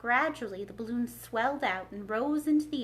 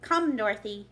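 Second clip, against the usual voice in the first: cried; 6 dB louder than usual. Acted. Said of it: "cried the wizard".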